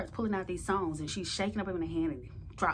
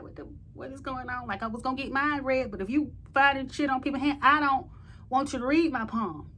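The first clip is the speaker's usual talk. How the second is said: rising panic, high and loud; alarmed outburst; 6 semitones higher, 5 dB louder than usual. Retold or imitated. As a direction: voice jumps higher, gets louder as it goes. My own shocked reaction, retold.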